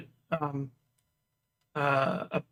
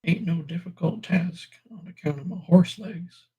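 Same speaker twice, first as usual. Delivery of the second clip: mouth full of peanut butter; 2 semitones higher than usual. Pretend. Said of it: "Producers put peanut butter in my mouth".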